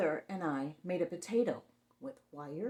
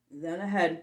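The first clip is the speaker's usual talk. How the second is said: suspense whisper; 2 semitones lower, 7 dB louder than usual. A narrator's reading.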